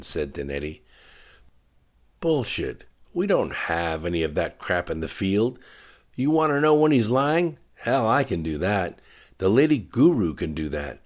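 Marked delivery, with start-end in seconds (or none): 2.2-11.0 angry outburst. Acted. General blows up at admiral.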